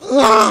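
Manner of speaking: loud, high imitated child's bawl; mock wail. Daughter gives up on the rock, imitated wailing. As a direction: burst out in a pretend cry. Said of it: "하면서 울었어요".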